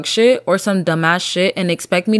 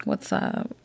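mock club greeting; 11 dB quieter, slower than usual. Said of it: "I'm like".

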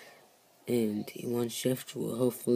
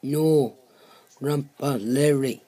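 loud and clear, insisting; 3 semitones higher, 6 dB louder than usual. Acted. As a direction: correct the name, louder. Guest corrects his misheard name.

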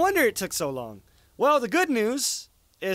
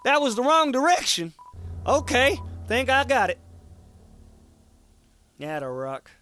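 a lightly voiced cowboy rock, teasing; hint of a sassy rock; folksy rock voice; 2 semitones higher than usual. Voicing the talking rock.

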